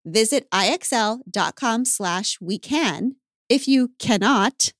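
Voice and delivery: brisk, measured sponsor read; podcast ad read. Real, not acted. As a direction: read the ad copy briskly and clearly. Reads a podcast ad.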